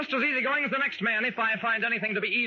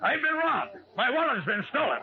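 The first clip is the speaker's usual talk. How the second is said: a higher, startled voice that calms on the second line; alarmed cry; 4 semitones higher than usual. Acted. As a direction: blurt out the shock of being robbed. Man discovers his stolen wallet.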